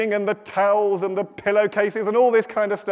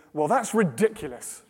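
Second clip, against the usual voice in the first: indignant objection. Acted. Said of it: "sitting there right now thinking".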